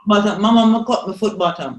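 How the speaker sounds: put-on Jamaican patois child, loud and urgent; a hurt child calling mama in patois. Child calling mother about a cut foot, mock Jamaican patois. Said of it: "ask them".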